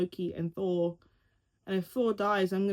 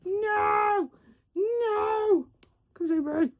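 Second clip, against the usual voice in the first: high, far-off squeaky cat refusal; voicing the cat; 12 semitones higher, much slower than usual. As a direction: play the cat saying no. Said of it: "He's like".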